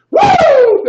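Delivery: high, loud Ric Flair woo. Real, not acted. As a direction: let out a wrestler's woo. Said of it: "give us one more woo".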